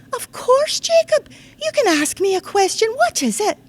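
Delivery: put-on reply in a Scots accent like a patient friend; Scottish grown-up humouring an eager child. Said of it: "I'm going to do it in the Scots dialect".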